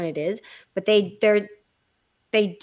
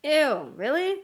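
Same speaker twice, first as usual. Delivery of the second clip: playful disgust; 7 semitones higher, much slower than usual. Real, not acted. Teasing friend's habit.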